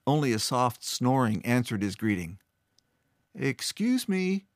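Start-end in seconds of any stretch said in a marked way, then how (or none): 3.3-4.5 louder. A narrator's reading. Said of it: "he said louder".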